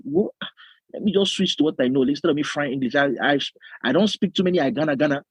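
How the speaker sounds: imitated core Yoruba-accented English. Yoruba pastor giving up on English mid-service, imitated Yoruba accent. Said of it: "Yoruba accent, like, to the core".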